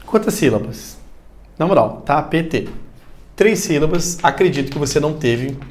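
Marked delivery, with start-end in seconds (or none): 2.1-2.7 "tapete" slowly split into three syllables. Shown as a demonstration. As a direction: sound out "tapete" in three blocks. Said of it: "porque você pronunciou três blocos".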